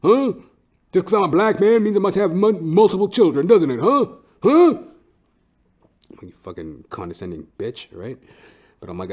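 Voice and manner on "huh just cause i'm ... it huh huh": higher, louder imagined confrontation; mock indignant rant. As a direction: build the imagined outrage at the lady. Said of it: "I felt like saying".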